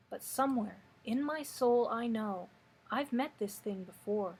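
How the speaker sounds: measured poem recital, pausing after each line; poetry reading. Acted. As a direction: read the verse unhurriedly, letting line endings fall away. Reads a poem aloud.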